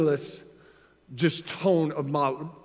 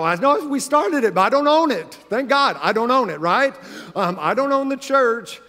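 animated retelling; 4 semitones higher than usual. Retold or imitated. Dad telling his daughter he doesn't own it, lightly raised voice. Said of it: "I go".

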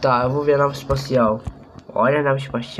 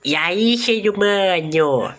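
high, slow attempt at an alien voice; a kid straining to copy the alien, pitched up; high drawn-out mock alien; kid trying alien voice; 5 semitones higher, much slower than usual. Shown as a demonstration. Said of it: "vou tentar".

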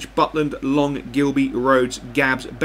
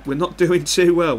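higher and louder, laughing through the words; laughing at himself; 4 semitones higher, 4 dB louder than usual. Real, not acted. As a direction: chuckle at how badly it's going. Laughs at losing at half-time.

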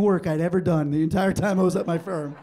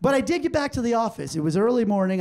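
ordinary delivery

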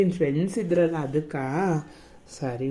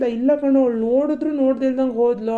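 imitating his friend; 4 semitones higher, faster than usual. Boyfriend mimics his friend saying she ignored him, higher and teasing. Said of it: "ನನ್ friend ಹೇಳ್ದ".

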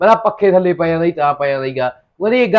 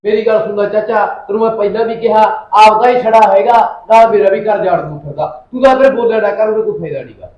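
loud, higher, heated telling-off; angry scolding; 4 semitones higher, 5 dB louder than usual. Acted. Nephew scolding his uncle for meddling, loud and angry. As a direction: snap at the uncle to stay out of it.

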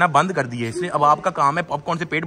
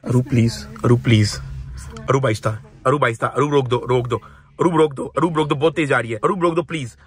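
mock panicked pleading; 5 semitones lower than usual. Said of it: "क्या acting कर रहा है".

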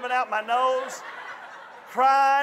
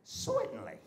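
very high, soft comic squeal; Three Stooges impression; 13 semitones higher, 12 dB quieter than usual. Father answering mama like the Stooges, Three Stooges impression. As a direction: squeak it out in a cartoonish falsetto. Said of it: "for doing the Three Stooges".

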